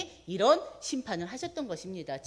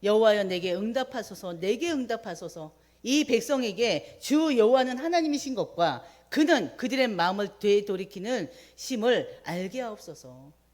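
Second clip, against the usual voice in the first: rising fervent prayer, louder at its peak; 4 dB louder than usual. Retold or imitated. Elijah praying before the people, a fervent plea. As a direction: cry out to God, building to a strong plea. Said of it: "십팔 장 삼십칠 절".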